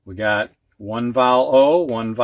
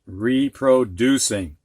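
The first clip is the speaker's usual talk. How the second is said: slow and careful; slower than usual. Shown as a demonstration. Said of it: "It's got four syllables".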